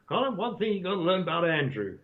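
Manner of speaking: put-on American accent, lightly done; a hint of an American accent. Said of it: "I'm gonna put on my American accent now".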